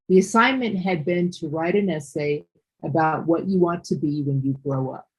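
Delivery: even statement tune, settling low at the end; read as plain statement. Shown as a demonstration. Teacher contrasting narration with a question, matter-of-fact statement reading. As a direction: read "The assignment had been" as information, falling away. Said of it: "This is just a statement".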